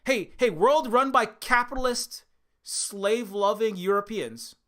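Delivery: high, loud, sing-song call to the world; hammed-up welcome, high and loud; mock cheerful invitation. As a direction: chirp it out like a naive host. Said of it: "Hawaii didn't come out and say".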